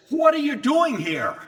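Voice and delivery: high, loud demanding challenge; hostile demon. Retold or imitated. Demon challenging Jesus on its turf, loud and hostile. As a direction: demand it like an intruder's been caught.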